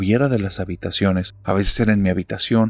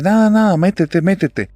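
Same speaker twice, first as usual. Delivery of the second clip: high, louder urgent pleading; urgent hushed plea; 9 semitones higher, 4 dB louder than usual. Retold or imitated. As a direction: hurry him inside, alarmed. Mother urgently pulls son inside. (apremiante y asustada, más aguda)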